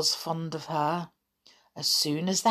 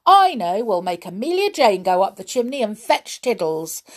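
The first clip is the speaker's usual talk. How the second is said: crying out; 3 semitones higher, 4 dB louder than usual. Acted. Tom proposes a rescue to the toys, crying out. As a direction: burst out with a bright idea, loud at first. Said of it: "cried Tom".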